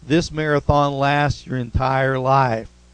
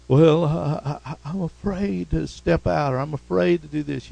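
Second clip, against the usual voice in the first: hesitant, stammering mock reluctance; acted fear. Believer afraid to step out, mildly acted fear. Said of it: "Fear is one of the devil's big tactics".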